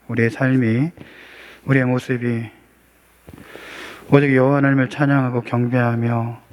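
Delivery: even, solemn prayer with little pitch movement; public prayer. Real, not acted. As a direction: pray aloud in a low-key, level tone. Leads an opening prayer. (차분하게 기도하는 말투)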